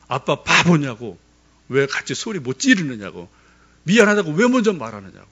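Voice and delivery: hammed-up kids scolding their dad; a touch of the kids' outrage; imitating angry kids. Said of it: "막 애들이 화를 내는 거예요".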